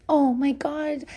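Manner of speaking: high, bubbly mock congratulations; gushing well-wisher. Everyone gushing at a pregnant woman, high mock cheer. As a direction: gush like an overexcited friend.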